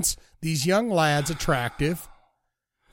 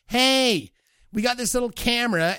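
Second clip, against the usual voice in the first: high-pitched amateur camera operator; amateur filmmaker; 6 semitones higher than usual. Acted. Imitating someone filming shaky found footage, amateur filmmaker voice. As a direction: pitch it up like a hapless home-movie maker.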